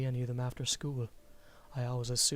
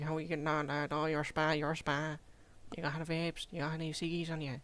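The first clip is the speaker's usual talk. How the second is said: put-on cheeky British schoolboy accent, higher; British lad accent; 4 semitones higher than usual. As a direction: mimic a British teen lad asking for ciggies. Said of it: "They speak like".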